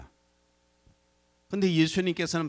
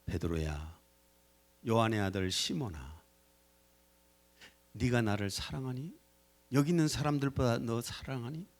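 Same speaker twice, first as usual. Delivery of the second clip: tender asking. Pretend. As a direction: ask it lovingly, like coaxing a hurt friend. Jesus gently asks, set against rebuke.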